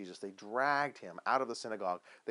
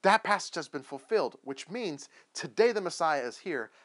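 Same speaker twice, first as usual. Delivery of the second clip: louder, punched declaration; emphatic proclamation; 3 semitones higher, 6 dB louder than usual. Retold or imitated. Jesus proclaiming himself the Messiah, emphatic and loud. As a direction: proclaim it with weight on each key word. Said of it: "said it with an emphasis on himself and then proclaimed".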